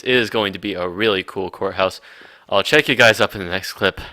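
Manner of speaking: slightly winded, catching breath. Real, not acted. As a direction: talk while short of breath. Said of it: "I'm actually kind of out of breath right now".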